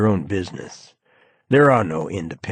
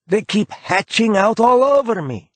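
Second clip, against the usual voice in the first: shy; 13 semitones higher, 5 dB louder than usual. A narrator's reading. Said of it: "he says shyly".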